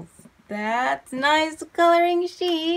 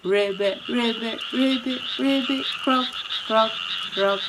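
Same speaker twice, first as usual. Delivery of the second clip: lightly chanted ribbits and croaks; frog calls; 2 semitones lower, faster than usual. Acted. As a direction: imitate frogs in a steady rhythm. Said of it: "remember to listen for the frogs".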